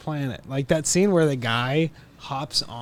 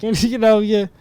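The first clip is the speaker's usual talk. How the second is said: much higher, loud nervous laughter; 9 semitones higher, 11 dB louder than usual. Retold or imitated. Henry Hill scrambling to explain, nervously laughing. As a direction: backpedal while laughing. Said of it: "He's like".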